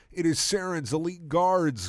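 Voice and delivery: alarmed Garrus. Acted. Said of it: "cried out Garrus with alarm".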